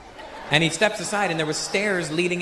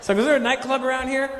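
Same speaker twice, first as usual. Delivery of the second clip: raised, tentative comic query; high-pitched question; 8 semitones higher than usual. Retold or imitated. Visitor asks again outside the silent door, high-pitched. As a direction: ask it high, almost sung upward.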